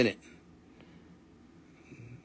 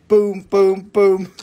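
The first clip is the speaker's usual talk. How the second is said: hype; 3 semitones higher, 6 dB louder, much slower than usual. Pretend. Hyping buyer again.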